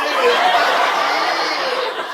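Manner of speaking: high, loud mock-Australian strain; drawn-out Australian yell, as if straining on the toilet; straining Australian accent. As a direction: parody Australian, pushing the word out. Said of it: "sound like you're having a massive poo".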